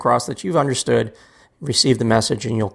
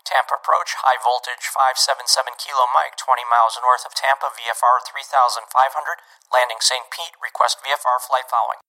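rushed overloaded radio call; amped-up pilot radio call. Shown as a demonstration. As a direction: cram everything into one call. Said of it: "It sounds like this".

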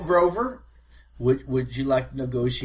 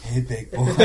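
breathy vintage purr; 2 semitones lower than usual. Acted. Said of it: "And it just says".

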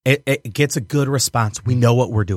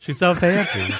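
1 bro voice; 5 semitones higher than usual. Retold or imitated. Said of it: "how they talk to each other".

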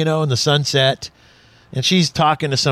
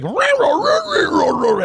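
mock wife nagging; 11 semitones higher, slower than usual. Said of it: "and she's like".

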